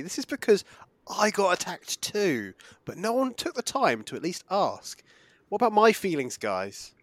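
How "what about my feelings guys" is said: mock self-pity. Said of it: "you're being sarcastic about everything".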